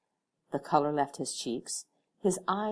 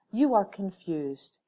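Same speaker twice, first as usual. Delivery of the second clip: slow, louder, odd calm stranger; 4 semitones higher, 5 dB louder, slower than usual. Acted. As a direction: read her face, slowly. Stranger reads her face.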